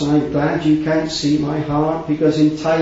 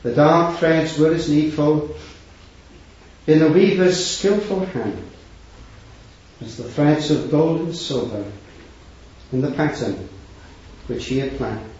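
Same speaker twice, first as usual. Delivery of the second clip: poem recital. Acted. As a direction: recite it gently, line by line. Recites a poem on God's weaving.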